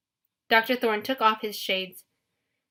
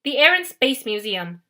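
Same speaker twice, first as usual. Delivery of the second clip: irritable correction; 2 semitones higher, 6 dB louder than usual. Acted. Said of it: "Luke corrected irritably".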